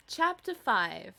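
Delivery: loud, slow announcement. Acted. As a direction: boom out the chapter title. Announcing chapter after whisper.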